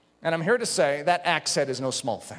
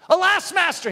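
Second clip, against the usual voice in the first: anguished cry; 11 semitones higher, 5 dB louder than usual. Retold or imitated. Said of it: "he goes".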